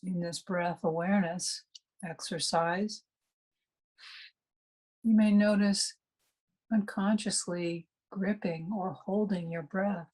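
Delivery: unhurried meditation guide with long pauses; calm meditation instruction, spaciously phrased; guided meditation. Real, not acted. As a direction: guide listeners gently inward, pausing between phrases.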